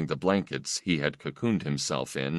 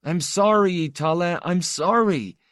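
tearful apology; 12 semitones higher, 4 dB louder than usual. Acted. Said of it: "who was still crying".

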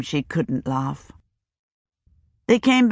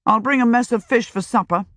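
put-on boy's voice; 6 semitones higher than usual. A narrator's reading. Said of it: "with a better grace than usual".

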